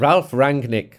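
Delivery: "Ralf Rangnick" repeated with German R's; practised German pronunciation. Shown as a demonstration. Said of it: "You've got it".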